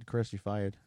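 "fired" said as "FI-ahd". Shown as a demonstration. Host teasing in local speech, "fired" with no R. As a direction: drop the R in "fired". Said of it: "No R".

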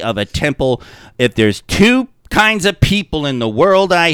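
a touch of a loud grumbling half-orc; half-orc constable rant. Retold or imitated. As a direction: rant about perverts like a fed-up big lawman. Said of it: "And he's like".

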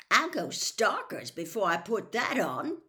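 put-on stubborn boy refusing loudly. A narrator's reading. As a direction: dig your heels in. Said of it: "said Ron stubbornly".

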